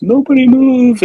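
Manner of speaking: high, loud acted command; mock hostage-taker's shout. Man with a gun ordering everyone to freeze, mock shout. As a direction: call it out sharply like a movie standoff.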